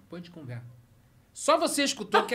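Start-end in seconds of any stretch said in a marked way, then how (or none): 0.1-0.6 much softer, lower hissed warning; mom's low hiss. Retold or imitated. Mom warning son among guests, much softer hissed threat. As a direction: whisper it so only the son hears. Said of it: "ela fala baixinho".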